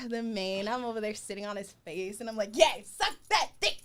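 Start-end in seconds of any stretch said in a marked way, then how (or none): 2.6-3.9 laughing cheer. Retold or imitated. Cheering on while retelling.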